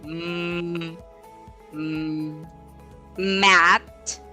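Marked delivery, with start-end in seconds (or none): 3.2-4.2 "mat" said alone with short A; mat vowel demo. Shown as a demonstration. Teacher gives an example word, mat with short A.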